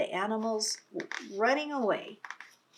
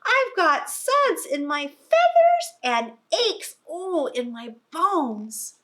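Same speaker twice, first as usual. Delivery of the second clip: high, loud duck voice sinking into a slow groan; high duck moaning; 8 semitones higher, 9 dB louder, slower than usual. Acted. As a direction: moan like an aching duck. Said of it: "the duck moans".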